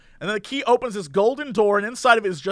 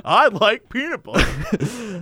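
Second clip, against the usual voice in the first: dazed slow voice; much slower than usual. Pretend. Mocking dazed Aikman.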